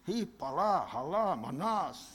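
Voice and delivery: softly murmured speaking in tongues; quiet tongues. Retold or imitated. Pastor in the waiting room praying in tongues, quietly. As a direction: hush it down, private tongues under the breath. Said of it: "falando em línguas, quietinho, baixinho".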